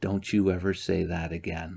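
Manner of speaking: really quiet, hushed, under the breath. Retelling a warning given after he said that word: retelling saying it really quietly. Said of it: "I just said really quietly".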